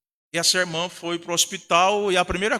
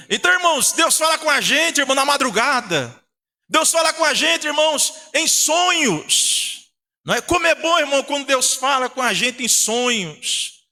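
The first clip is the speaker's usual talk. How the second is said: higher-pitched, driving preacher's delivery; pregação fervorosa; 7 semitones higher than usual. Real, not acted. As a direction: preach it with mounting fervour to the congregation. Preaching at full force. (pregação inflamada)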